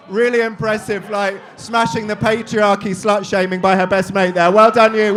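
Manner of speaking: mock praise. Real, not acted. Mock praise, crowd roaring.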